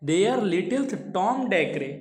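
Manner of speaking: each word read out slowly; measured recitation of verse; slow poem reading. Shown as a demonstration. Teacher reads poem line slowly.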